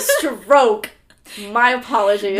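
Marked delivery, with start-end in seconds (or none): 0.0-0.9 "stroke" stretched very slowly and said loud; drawn-out stroke. Shown as a demonstration. Co-host repeating the corrected word, slow loud stress. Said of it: "That's not what he says".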